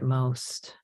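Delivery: unhurried meditation guide, with long pauses; guided meditation. Real, not acted. Teacher leading a group to remember being helped, unhurried guided meditation. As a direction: gently lead the reflection, leaving space between phrases.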